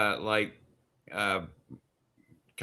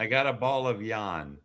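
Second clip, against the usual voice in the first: Maine accent; 4 semitones lower than usual. Shown as a demonstration. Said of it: "Maine tang".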